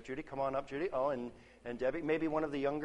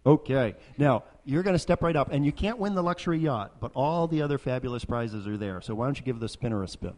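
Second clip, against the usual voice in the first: loud carnival barker; 2 semitones higher, 10 dB louder than usual. Acted. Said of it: "game show host".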